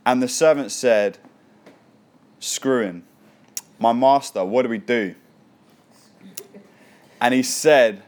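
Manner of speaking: steady, measured Bible reading voice; scripture reading. Acted. Pastor reading scripture aloud to church, measured. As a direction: read the passage to the congregation.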